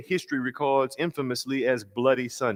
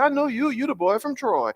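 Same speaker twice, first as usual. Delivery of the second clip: much higher, warm recognition; King greeting young Lewis, via Lewis's voice; John Lewis voice; 13 semitones higher than usual. Retold or imitated. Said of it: "my attempt to do his voice".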